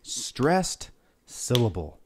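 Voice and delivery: slow "Stressed syllable", leaning on the first syllable of each word; "Stressed syllable" said slowly, with a punched STRESSED; stressed syllable demo. Shown as a demonstration. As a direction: draw out "Stressed syllable" deliberately for repeating. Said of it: "a stressed syllable. Say that with me".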